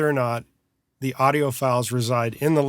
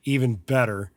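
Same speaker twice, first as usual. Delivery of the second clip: sarcastic. Real, not acted. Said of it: "and I say that sarcastically".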